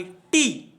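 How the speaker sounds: टी said alone as one syllable; a separate, demonstrative टी; syllable-by-syllable pronunciation. Shown as a demonstration. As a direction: isolate टी for the learner. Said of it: "ब्यूटीफुल का उच्चारण करते हैं".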